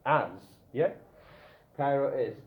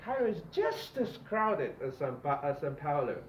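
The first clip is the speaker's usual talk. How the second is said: emphasize "just", then fall away on the city; emphatic JUST. Shown as a demonstration. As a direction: lean hard on "just" before "as crowded". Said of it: "more emphatic".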